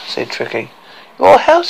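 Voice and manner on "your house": put-on indignant girl. A narrator's reading. Girl's indignant disbelief.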